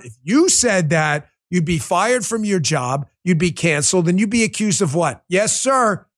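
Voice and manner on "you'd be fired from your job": normal talking voice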